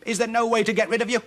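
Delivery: high, loud exasperated outburst; scowling witch. Acted. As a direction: demand it loudly, at the end of your patience. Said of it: "scowled at them and said".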